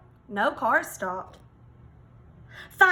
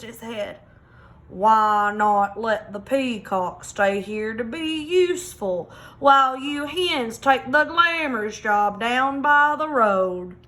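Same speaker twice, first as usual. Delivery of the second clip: put-on old hound. Old hound suggests slowly.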